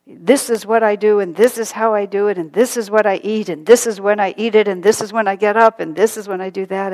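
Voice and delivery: loud, insistent list of habits; mock rigid newcomer. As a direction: rattle off your routine like a know-it-all. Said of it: "they would come into Ananda with".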